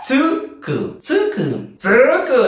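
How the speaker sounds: varied tone. Shown as a demonstration. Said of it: "dependiendo también en qué tono lo diga".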